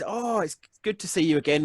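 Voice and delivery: a cheery little halfling voice, only a touch up; halfling's accent. Acted.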